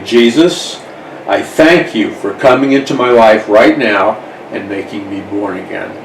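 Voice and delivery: demo prayer. Shown as a demonstration. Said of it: "by faith you say".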